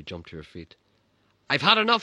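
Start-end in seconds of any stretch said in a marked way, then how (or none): 1.5-2.0 shrill, much higher mother's shout. Retold or imitated. Mother jumping up by the fire, shouting at family. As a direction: blast it out like a furious mother. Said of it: "she shouted".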